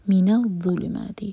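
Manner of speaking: من الظلمات with the meem held two seconds; merged meem held. Shown as a demonstration. Teacher demonstrates idgham slowly. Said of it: "میم کو ہم hold کریں گے".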